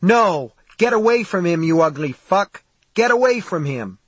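high, urgent yelling to drive off an attacker; screamed. A narrator's reading. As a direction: cry out in alarm, pitched well up. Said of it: "Mary screamed".

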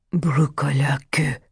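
hushed, near-whispered dread word; low voice. A narrator's reading. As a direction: utter it under your breath. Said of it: "said Martin in a low voice".

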